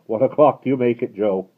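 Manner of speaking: calling out. Acted. Coachman shouting question in night.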